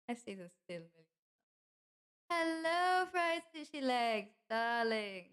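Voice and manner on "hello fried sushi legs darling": high, drawn-out hello easing down; effusive greeting. Acted. Greeting a darling who joined the chat, effusive. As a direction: greet a darling with a long, lilting call.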